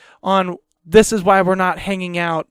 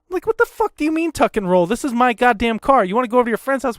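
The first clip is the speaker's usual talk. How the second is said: indignant retort; 4 semitones higher, faster than usual. Retold or imitated. Replaying angry retort in the car.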